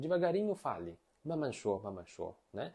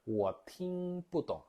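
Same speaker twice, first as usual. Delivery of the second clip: slow model phrase; 3 dB louder, slower than usual. Shown as a demonstration.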